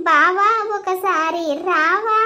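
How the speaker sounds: slow teasing sing-song call; slow sarcastic crooning of his line; mocking sing-song. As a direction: mimic his sweet talk sarcastically. Mocking his sweet words.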